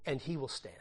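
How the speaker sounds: he stressed, falling quietly; soft emphasis on he. Shown as a demonstration. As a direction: lean on the word he, then fall. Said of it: "listen to this little line".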